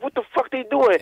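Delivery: imitating an angry mom at the game; mom cursing at TV. Son mimics his mom cursing at the Knicks, mild mock outrage. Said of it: "She's like".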